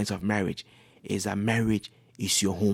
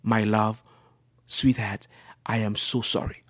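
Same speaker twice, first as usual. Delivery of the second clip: calm apology; 3 dB quieter than usual. Acted. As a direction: placate an angry spouse with understated calm. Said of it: "I will just calm down and say".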